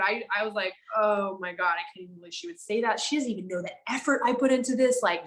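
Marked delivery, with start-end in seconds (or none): 1.0-5.0 triggered rant. Retold or imitated. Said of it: "Ooh, I was so triggered".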